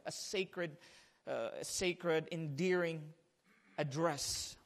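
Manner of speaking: soft, slow, hushed reading; hushed reverence. Acted. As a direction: draw them in with a near whisper.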